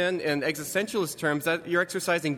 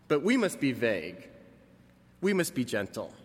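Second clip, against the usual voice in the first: sarcastic; 3 semitones lower than usual. Retold or imitated. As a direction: say it with a sneer of false piety. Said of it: "So you hear the sarcasm there".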